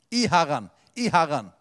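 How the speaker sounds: «I Herren» repeated, hitting «i» each time; stress on «i». Shown as a demonstration. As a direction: lean on the word «i». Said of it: "Nei, bli sterk i Herren".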